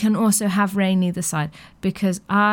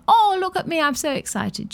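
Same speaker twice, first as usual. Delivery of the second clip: excited kitten voice; 7 semitones higher than usual. Retold or imitated. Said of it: "She's like".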